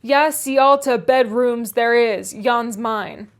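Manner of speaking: a hint of crusty Yorkshire; gruff Yorkshire servant. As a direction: grumble back in thick dialect. Joseph's reply.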